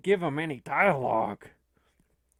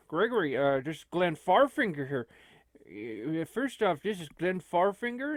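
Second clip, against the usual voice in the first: put-on Minnesota accent. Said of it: "a Minnesota accent".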